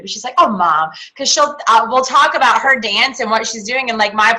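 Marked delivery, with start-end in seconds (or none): 0.4-0.9 low, mildly put-upon daughter; lightly mocked teenage-style protest; exasperated daughter. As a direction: imitate a child mildly fed up with mom. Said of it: "Morgan gets really frustrated, like, not frustrated".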